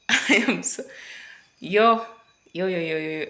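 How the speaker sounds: giddy celebration shout; excited yelling. Real, not acted. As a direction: hype yourself up. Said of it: "I am so excited".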